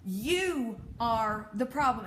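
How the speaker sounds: drawn-out, punched YOU in "You are the problem"; emphatic repeat. Real, not acted. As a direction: stretch out YOU slowly and lean on it.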